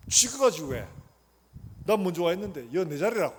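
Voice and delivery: loud mock protest; put-on grumpy objection; acted indignant refusal. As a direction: dig in over your seat, playing it up. Acted churchgoer refusing to move seats.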